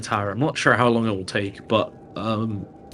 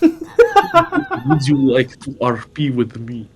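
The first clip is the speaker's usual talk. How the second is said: laughing; much slower than usual. Acted. Flirty in-character proposition.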